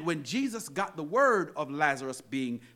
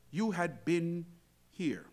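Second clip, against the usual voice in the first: hushed, falling plea; 6 dB quieter, slower than usual. Acted. Preacher voices regret that Jesus was absent, hushed. Climax falls away.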